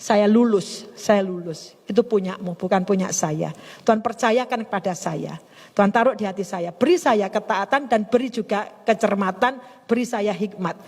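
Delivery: low, subdued prayer to God; re-enacted thankful prayer. Speaker surrendering the gift to God, re-enacted thankful prayer. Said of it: "Saya bilang, Tuhan, terima kasih".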